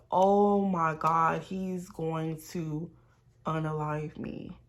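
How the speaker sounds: slow, sinking, softening dread. Retold or imitated. Storyteller replays seeing the totaled car, slow dread. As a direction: let it slow and drop away in dread.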